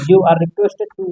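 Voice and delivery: very slow, stretched words; slow dictation. Shown as a demonstration. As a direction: spell it out slowly for students.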